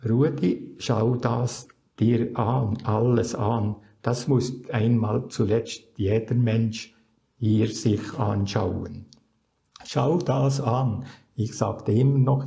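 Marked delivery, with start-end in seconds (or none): 0.1-11.0 gentle, understanding. Retold or imitated. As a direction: speak kindly and unhurried, like a patient guide. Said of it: "ohne mich zu verurteilen, hatte viel Verständnis". (langsam, sanft und verständnisvoll)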